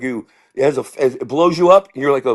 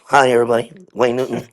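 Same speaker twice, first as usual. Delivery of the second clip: lower, grinning showman hello; Wayne Newton greeting; 4 semitones lower than usual. Retold or imitated. Comic mimicking Wayne Newton's grinning hello, lower showman voice. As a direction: say it through a big stage smile. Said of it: "his smile is like".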